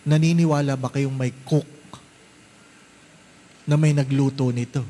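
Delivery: host asking. Retold or imitated. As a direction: press the guests like a proud host. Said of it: "sabi daw ng host". (nagtatanong na host, mas mabilis)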